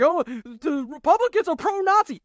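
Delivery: sneering parody of critics; a put-on voice mimicking his critics; mocking quote. Parroting critics who call Republicans pro-Nazi, sneering. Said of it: "all those dumbasses out there who have been shouting".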